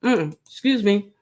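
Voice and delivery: talking through a mouthful; words around a bite of food; mouth full. Real, not acted. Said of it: "Talking with my mouth full".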